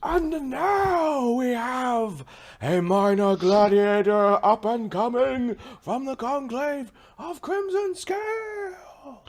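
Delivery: high, drawn-out ringside introduction; arena announcer. Acted. Game master introducing a minor gladiator, arena announcer voice. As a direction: stretch and raise it for the crowd.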